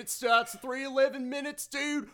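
put-on high, loud, over-the-top Kiwi accent; New Zealand accent. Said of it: "that is the worst New Zealand accent".

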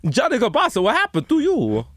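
high, hammed-up mock crying; mock wail. Host mock-cries over his friend Johnny Kabasa. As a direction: wail his name in fake grief.

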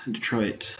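soft, half-whispered sultry reading of Detroit Plus; mock sexy. Host reading the TV schedule in a mock seductive voice. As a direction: try to purr the channel name. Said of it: "There's no sexy way to say that".

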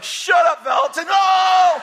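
loud angry yell; shouting. Retold or imitated. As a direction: bark it at him. Tom yelling from the floor.

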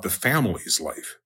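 emphasis on FAMILY'S, then ease off on life; stress on family's. Shown as a demonstration. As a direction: lean on the word family's. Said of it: "I'm emphasizing, uh, um, family".

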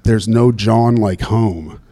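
slow, deadpan reading of the corny slogan; slow, sarcastic reading of the ad slogan; mock billboard slogan. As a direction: read the billboard line slowly with disdain. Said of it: "It said, like".

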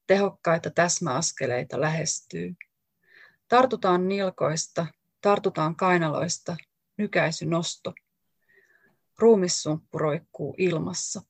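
measured, deliberate reading of a poem, each image set apart; poetry reading. Acted. Author reading her own poem aloud to the audience, measured and deliberate. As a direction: read it out like a poet giving a live reading.

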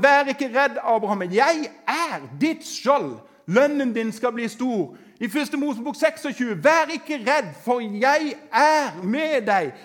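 loud, rising sermon build, each verse hammered; preaching at full force. Acted. Preacher to congregation, full-force preaching.

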